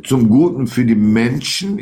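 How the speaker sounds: "Menschen" given firm, deliberate emphasis; stress on Menschen. Real, not acted. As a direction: lean on the word "Menschen" to single it out. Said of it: "ich betone Menschen".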